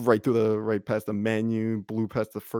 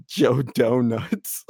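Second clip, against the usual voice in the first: slow punchline; 7 dB louder, much slower than usual. Retold or imitated. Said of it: "he goes".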